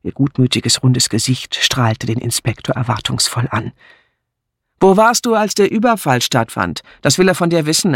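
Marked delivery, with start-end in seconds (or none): 4.8-7.9 put-on a brisk, teasing older woman, pitched higher; brusque Miss Hinchliff. A narrator's reading. Miss Hinchliff ribbing Amy in front of the inspector, teasing. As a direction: needle her friend with dry amusement.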